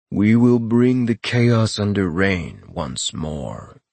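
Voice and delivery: slow, rasping vow; drawn-out, solemn rasp. A narrator's reading. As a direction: declare it slowly in a raspy creature voice. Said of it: "the rasping voice said".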